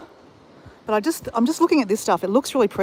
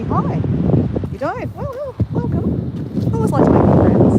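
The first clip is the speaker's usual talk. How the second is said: much higher, mock sweet welcome; playful cartoon greeting; 12 semitones higher, 3 dB louder than usual. Dora hams up welcoming new viewers, much higher.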